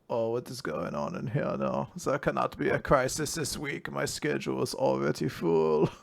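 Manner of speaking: lightly put-on stuffy statesman voice; Henry Kissinger. Statesman walking in on a crisis, mildly put-upon impression. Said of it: "look up Henry Kissinger quotes just so I could like, channel them".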